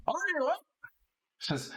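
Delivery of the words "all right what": a husband pulled from his drink; grumpy halfling husband. Acted. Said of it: "He goes".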